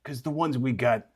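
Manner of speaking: a lightly voiced creature, hushed and wheedling; quiet steam creature.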